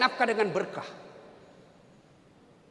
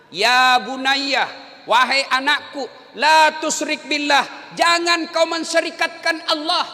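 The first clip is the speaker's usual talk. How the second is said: Quranic recitation; 3 dB louder, slower than usual. Acted.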